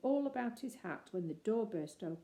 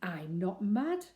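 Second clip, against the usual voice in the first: indignant; 6 dB louder, slower than usual. Acted. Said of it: "said Paddington indignantly".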